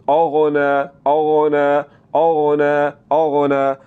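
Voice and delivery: "औना" as "aghna" with a thick rounded gh; full ghain. Shown as a demonstration. Teacher corrects students, full ghain in औना. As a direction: make the gh in "औना" heavy. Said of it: "पुर करना है गैन को".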